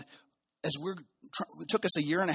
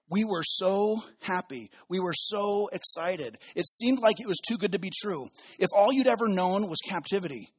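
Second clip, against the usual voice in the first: excited crowd voice; 3 semitones higher than usual. Acted. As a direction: sound like it's too good to be true. Voicing the returning exiles' joy.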